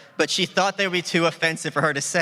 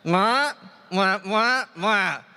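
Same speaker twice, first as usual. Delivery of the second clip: mock kissing sounds as a politician; Ron Paul impression; slower than usual. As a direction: smack out kisses like a bad Ron Paul bit. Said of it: "let's hear your Ron Paul impression".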